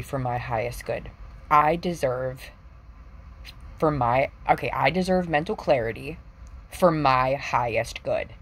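slow, deliberate affirmation read. Shown as a demonstration. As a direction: lightly intone it like a mantra. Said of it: "speak your truth into existence".

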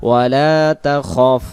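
one-beat long "laa" in ওয়ালা তাখফ, rest short; ওয়ালা তাখফ held only on "laa", short "khof"; only "laa" lengthened. Shown as a demonstration. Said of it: "কোনো টান নাই, শুধু লাটা এক আলিফ".

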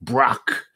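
Brock said distinctly with open "o" as in rock; correct Brock pronunciation. Shown as a demonstration. Host tells folks to get it right, Brock pronunciation. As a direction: drill Brock, rhyming with lock. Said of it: "Get it right, folks".

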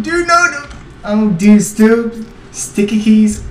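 high panicked yell; yelling across the room. Real, not acted. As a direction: shout it out in alarm. Panicked calls while fleeing.

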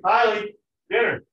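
loud, high repeated call; firmer call. Retold or imitated. Parent calls again, firmer.

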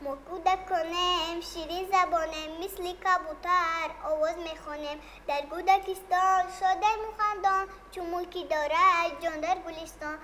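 put-on steady, sing-song school recital of a children's poem; child reciting verse for the TV host; poem recitation. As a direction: recite it like a kid performing at a school assembly.

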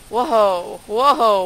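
sudden loud whoa; startled. Real, not acted. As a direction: caught off guard.

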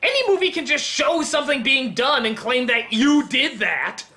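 high-pitched, indignant complaint; indignant rant. Pretend. Critic scolding the film's fake interactivity, indignant rant. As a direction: rant in hammed-up outrage.

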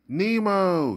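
high, loud call of a name; father calling out as the diver nears; anguished cry. Acted. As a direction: cry out to the son in panic. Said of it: "he cried".

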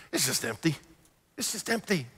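dropping to a near-hush, heavy. Acted. Pastor voicing Solomon's final verdict, hushed. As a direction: let it fall away into emptiness.

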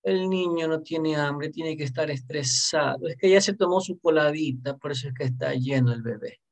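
soft, lightly voiced doting mother; mock coddling mother. Teacher imitating a mother excusing her child, mock coddling.

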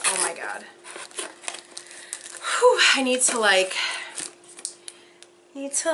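normal talking voice

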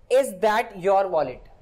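very slow, each word set apart; slow example read. Shown as a demonstration. Teacher reading an example sentence to the class, very slow.

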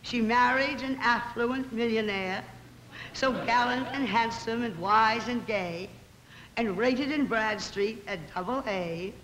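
measured, sing-song verse reading; poem recitation. Acted. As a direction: recite it like a witty moral tale in rhyme.

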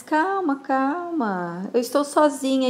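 acted appeal for calm; placating. Caught out, calming an angry man.

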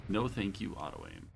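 deadpan sarcasm; sarcastic. Real, not acted. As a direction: flip the thanks into a dry mutter. Auto aim failing.

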